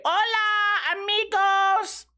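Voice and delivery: big hola greeting. Acted. Big show greeting to viewers.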